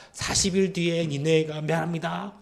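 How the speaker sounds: perfunctory imitation of a prophet's warning; half-hearted proclamation. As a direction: recite it on one level, just going through the motions. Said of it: "이렇게 그냥 대충". (대충 외치는 흉내)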